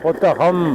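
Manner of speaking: புத்தகம் with the last "m" drawn out; final consonant shown. Shown as a demonstration. Teacher proving the word ends in a consonant, held final sound. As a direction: linger on the closing ம் of புத்தகம். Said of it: "மெய்யெழுத்துல முடிகிறது".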